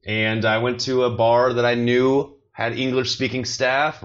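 normal talking voice

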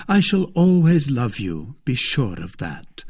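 a hint of the reassuring lover; reassuring gallant. Voices D'Artagnan reassuring Kitty.

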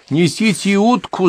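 high, slow call to the servants; shouting across the house. A narrator's reading. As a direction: call out for the duck through the whole house. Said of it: "закричала Полонская на весь дом".

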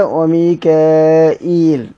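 وميكائيل very slowly; reading demo. Shown as a demonstration. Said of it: "جبريل هكذا".

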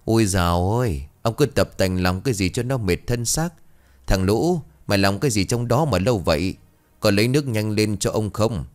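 lightly voiced shrewish old mistress; a hint of a nagging, sharp-tongued wife. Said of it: "nói bằng giọng chua ngoa".

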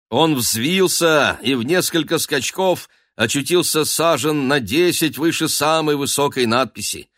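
usual speaking voice

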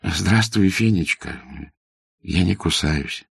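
gentle, understated call; affectionate call. A narrator's reading. Master tenderly calls to shy girl hiding in rye, affectionate. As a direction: call out kindly, without really raising the voice. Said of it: "и ласково крикнул ей".

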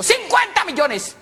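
CINCUENTA MILLONES cried out high and slow; drawn-out astonished cry; amazed exclamation. Acted. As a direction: stretch the figure out in high-pitched amazement. Same words repeated in amazement.

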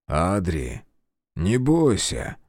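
a dad calming his son; father's voice. Acted. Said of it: "Отец".

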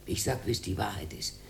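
soft, unvoiced whisper; a hushed, secretive aside; whispered confiding. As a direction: lean in and whisper it. Confiding, hushed about the bottle.

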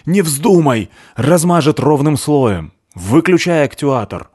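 high, loud commands; urgent shouting. Acted. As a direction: yell the orders in alarm.

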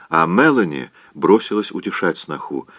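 ordinary delivery

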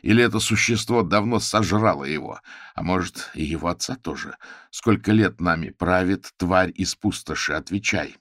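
loud, demanding interrogation; raising his voice at her; shouting. Acted. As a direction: hammer her with questions. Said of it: "Не кричите на меня".

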